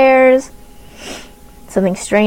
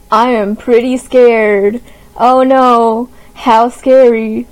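mock scared; much slower than usual. Mock fear at a cat video.

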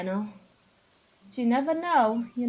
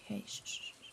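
shushing; 3 semitones lower, 19 dB quieter, much faster than usual. Retold or imitated. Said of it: "Van's like".

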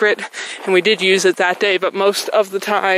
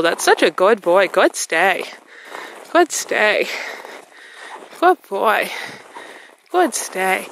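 praising dog; slower than usual. Real, not acted. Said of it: "praise instantly with my voice".

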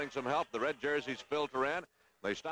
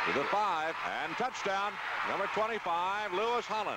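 touchdown call; 4 semitones higher than usual. Real, not acted. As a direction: call the score with rising excitement.

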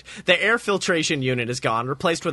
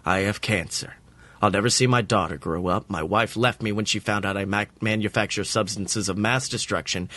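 gentle, pitying; 6 semitones lower than usual. A narrator's reading. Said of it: "Walt's voice is gentle".

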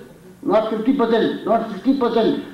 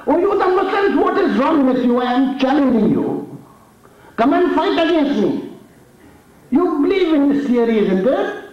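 retold roar; 4 semitones higher than usual. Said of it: "He roared".

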